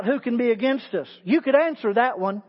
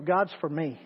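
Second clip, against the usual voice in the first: much softer and lower; personal, quiet; 6 semitones lower, 6 dB quieter than usual. Shown as a demonstration. Preacher making the words personal, softly. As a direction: say it quietly as your own. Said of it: "Let's just make it personal".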